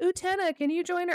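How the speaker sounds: very high-pitched, put-on girlish voice. Retelling boys asking utena to join their team, girl's voice for boys. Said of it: "I'm doing a girl's voice for these boys".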